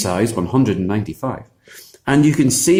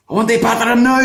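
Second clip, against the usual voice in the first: higher, louder insistent giant's demand; impatient giant; 11 semitones higher, 4 dB louder, faster than usual. Acted. Giant refuses to wait for Finn, louder insistent demand.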